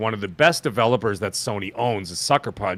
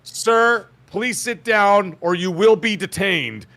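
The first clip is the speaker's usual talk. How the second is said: higher, slow mock-official warning; courtroom officer; 7 semitones higher, much slower than usual. Court official to a yelling husband, stern warning. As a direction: play a stern court official, stretching words. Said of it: "he's like".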